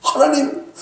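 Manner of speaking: lamenting David. Acted. Preacher voicing David lamenting to God. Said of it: "이렇게 탄식하는 거예요".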